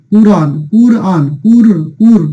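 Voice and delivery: কুরআন broken down slowly to its first syllable কুর; pronunciation demo. Shown as a demonstration. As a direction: model কুরআন deliberately, leaning on the opening কুর. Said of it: "এই কাফের উচ্চারণটা কিন্তু হয়ে যায়".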